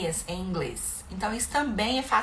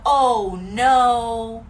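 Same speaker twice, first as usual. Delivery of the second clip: a louder oh no; mock dismay; 7 dB louder than usual. Shown as a demonstration. Parent teaching the English phrase, mock dismay. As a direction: say it like a little mishap happened. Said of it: "Ou então".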